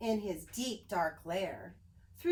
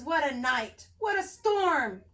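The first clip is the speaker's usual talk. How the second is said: mole muttering; 4 semitones higher, 5 dB louder than usual. Acted. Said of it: "Mole mutters".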